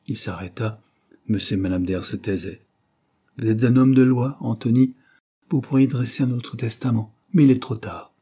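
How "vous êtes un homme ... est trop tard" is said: lightly voiced dying uncle, urgent; a hint of a feeble old man pressing his point.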